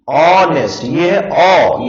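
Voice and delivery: ऑनेस्ट opening on an "aw" vowel, ओ drawn out; silent h demo. Shown as a demonstration. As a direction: say ऑनेस्ट with no h, then stretch ओ. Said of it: "ये है ओ".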